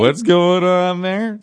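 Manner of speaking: scandalised, dragged out; slow, loud mock outrage. Mock shocked passerby.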